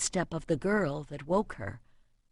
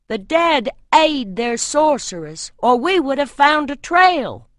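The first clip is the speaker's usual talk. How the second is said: uneasy warrior; 6 semitones higher, 7 dB louder than usual. A narrator's reading.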